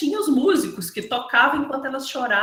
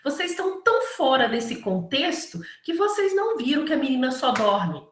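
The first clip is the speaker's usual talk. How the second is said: higher, urgent rebuke, fast at first; Jesus rebuking; 5 semitones higher than usual. Retold or imitated. Jesus rebukes the hired mourners, higher and urgent. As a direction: scold them for their empty tears. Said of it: "Então, ele falava".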